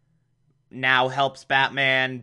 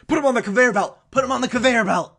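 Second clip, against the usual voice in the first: high, loud barked command; villain yelling at his henchmen; villain shouting orders; 8 semitones higher, 3 dB louder, much faster than usual. Retold or imitated. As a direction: order the goons around like a cartoon villain. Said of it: "Mad Hatter's like".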